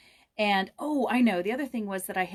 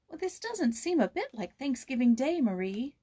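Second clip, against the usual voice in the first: put-on higher, plaintive young girl complaining; a girl grumbling to her maid on a holiday, plaintive; 7 semitones higher, 3 dB louder than usual. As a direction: whine gently to the maid. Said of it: "said Joyce plaintively".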